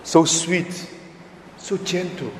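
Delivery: softly dropping away on the second phrase; sweet and gentle. Shown as a demonstration. Priest showing the nun's gentleness, soft and tender. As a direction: ease into it like a gentle nun. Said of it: "this gentle woman".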